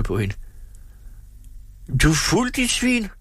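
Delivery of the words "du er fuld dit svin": higher, shouted insult; hammed-up drunken shout at Tripstine. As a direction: yell at her, banging the table. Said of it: "råbte han og slog i bordet".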